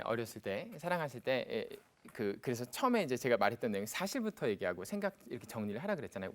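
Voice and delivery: ordinary delivery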